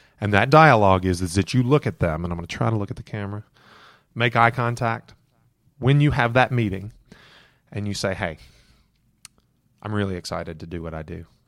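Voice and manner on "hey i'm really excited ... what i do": very quiet, soft, low, hushed tone. Showing what to say with eye contact in a meeting, soft lowered tone. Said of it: "Notice the tone of voice drop".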